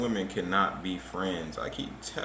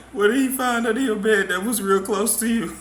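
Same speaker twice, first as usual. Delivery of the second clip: loud teasing question; 11 semitones higher, 9 dB louder than usual. Real, not acted. Teasing laughing host asks loudly.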